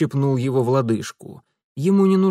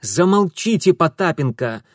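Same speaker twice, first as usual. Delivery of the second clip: blurted shout; 4 semitones higher, 4 dB louder than usual. Acted. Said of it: "выпалил Урусов".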